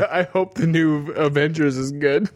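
plain, even robot voice, lightly done. Pretend. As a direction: read it like a flat voice assistant. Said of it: "do the robot voice directly into the mic".

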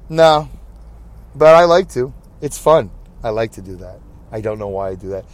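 usual speaking voice

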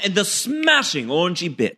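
a light put-on British accent; mock British accent. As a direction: say it the way a Brit would. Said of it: "you didn't read it in the right accent".

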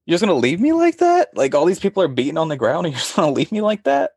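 incredulous mock outrage. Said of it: "I was like".

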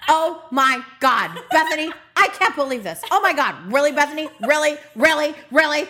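lightly voiced incredulous Ramona; a touch of disbelieving reality star; Ramona impression. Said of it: "please do a reenactment of Ramona".

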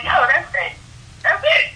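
giddy, can't-believe-it rise; excited disbelief. Retold or imitated. Retelling a dream gig to the interviewer, thrilled. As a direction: voice jumps up high on that's it.

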